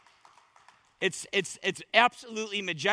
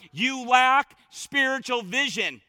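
slow, drawn-out emphatic charge; mild preacher's cry; 3 dB louder, slower than usual. Real, not acted. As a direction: preach it slowly, pressing each word. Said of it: "I wanna scream that to the churches".

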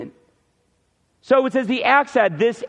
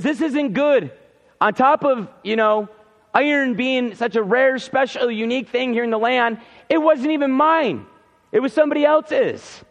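higher-pitched mock worry; retold fretting, pitch climbing to the end; mildly freaking out; 4 semitones higher than usual. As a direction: lightly act out someone starting to panic. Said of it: "So he's freaking out".

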